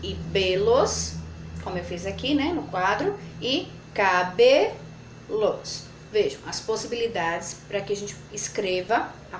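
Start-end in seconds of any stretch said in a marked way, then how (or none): 0.0-1.1 "Ca" then "belos", slow with a break; split syllables. Shown as a demonstration. Teacher showing where cabelos can break. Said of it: "possíveis separações". 3.4-4.8 slow split word. Shown as a demonstration. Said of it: "Veja as possíveis separações".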